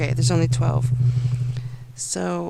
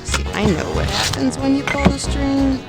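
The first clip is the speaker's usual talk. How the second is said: excited; 9 semitones higher, 5 dB louder than usual. Real, not acted. Teasing excited buildup.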